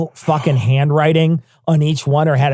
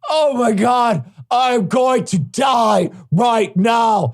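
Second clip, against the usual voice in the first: dramatic starving cat; 4 semitones higher, much slower than usual. Pretend. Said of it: "they're just like".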